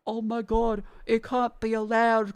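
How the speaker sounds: slow, hammed-up panicked censor; mock the moral panic; a hint of a fussy censor; mock pearl-clutcher. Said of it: "we're still dealing with the".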